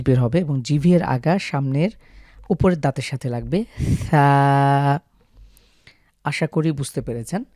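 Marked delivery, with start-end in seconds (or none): 4.1-5.0 সা with tongue between the teeth and air escaping; breathy tha demo. Shown as a demonstration. Tutor demonstrating airy সা with tongue out. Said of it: "জিভের আগাটাকে বের করতে হবে".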